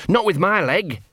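high, plaintive protest; whining dog. A narrator's reading. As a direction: whine helplessly, high in the voice. Whining dog cannot climb.

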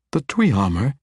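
The Dweomer echoed as a rising question. A narrator's reading. Matron echoes the mage, "The Dweomer?" rising. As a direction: repeat "The Dweomer?" in disbelief. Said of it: "she echoed".

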